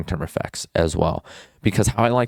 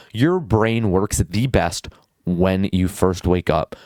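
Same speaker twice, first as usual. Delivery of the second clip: normal talking voice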